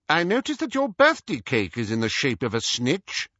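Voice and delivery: lightly voiced official, starting high; Scrimgeour questioning. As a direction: point it out with an interrogator's suspicion.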